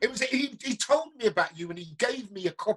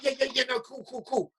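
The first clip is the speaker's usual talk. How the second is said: higher, rapid-fire eager agreement; imitated excitement; 4 semitones higher than usual. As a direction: mimic someone too excited to listen. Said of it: "You were so excited".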